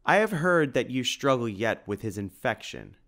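a hint of a gruff, growling big man; mild gruff growl from the shopkeeper doubting Simon; gruff bear-like growl. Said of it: "growled the man in a bear-like gruff voice".

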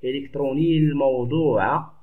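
إلكتروني الموضوع joined as iliktrunii-l-mawduu; linked, hamza dropped. Shown as a demonstration. Teacher saying it as if the hamza were absent, words linked. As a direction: slide from إلكتروني into the L of الموضوع without a stop. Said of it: "لا ننطقها كأنها غير موجودة".

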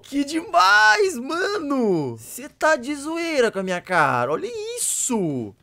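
high, loud, drawn-out exclamations; amazed shouting. Real, not acted. Streamer amazed by the game, high stretched shouting. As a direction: stretch every word in loud disbelief.

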